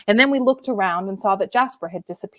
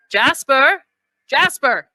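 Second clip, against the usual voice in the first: raised voice, calling for a lost dog; 6 semitones higher, slower than usual. Acted. Maxim calling the dog back across the beach, raised voice. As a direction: call the dog's name out across the beach. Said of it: "called Maxim".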